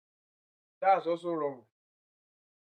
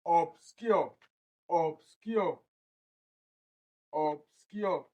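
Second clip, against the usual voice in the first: "Obscure" in two parts, ob, then SCURE; syllable division; much slower than usual. Shown as a demonstration. Teacher splits word into two, stressing the second. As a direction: separate "Obscure" into ob and SCURE, falling at the end. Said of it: "This is the first and this is the second".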